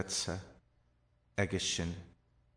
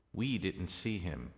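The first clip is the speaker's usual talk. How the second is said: slow, with "We" standing out; emphatic "We"; stress on We; 4 dB quieter than usual. Shown as a demonstration. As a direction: lean on "We", let the rest fall. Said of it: "They can also be added".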